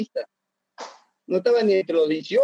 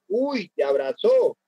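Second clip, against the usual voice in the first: mock warning; slower than usual. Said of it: "viene el Pelao Ferreira y le dice".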